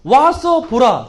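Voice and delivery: drawn-out chant; slow recitation. Shown as a demonstration. Teacher having children echo the phrase slowly. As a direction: stretch each syllable slowly. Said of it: "따라합니다".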